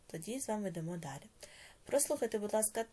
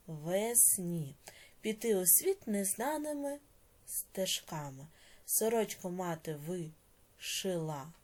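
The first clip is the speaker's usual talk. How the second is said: measured, expressive recitation; poem reading. Acted. Teacher reading a poem to the class, recited. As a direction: read the verse with feeling.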